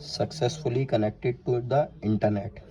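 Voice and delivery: slow, evenly spaced mock announcement; imitating the device read out word by word; device voice prompt. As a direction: mimic the doorbell's voice prompt. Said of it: "अब आपको door बड में से sound आएगा".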